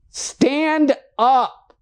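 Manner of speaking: insist, raise it on the repeat; insistent call. Acted.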